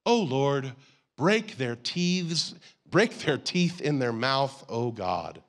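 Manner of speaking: slow, deliberate break their teeth; David praying in anger, slowed and weighted; mild angry prayer. Retold or imitated. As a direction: drag the plea out heavily. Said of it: "he prayed this prayer".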